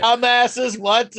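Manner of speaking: high, loud comic indignation; exaggerated incredulous insult; mock outrage. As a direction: berate them in hammed-up disbelief. Acts out disappointed viewers' outrage.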